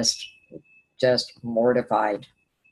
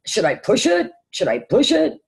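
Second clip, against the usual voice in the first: anxious self-questioning; 9 semitones higher, 6 dB louder than usual. Retold or imitated.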